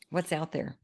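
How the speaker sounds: soft, understated curiosity; sense of adventure. Acted. Friend describing Mondays as an adventure, softly curious. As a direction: wonder quietly, as at an adventure. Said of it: "Like an adventure".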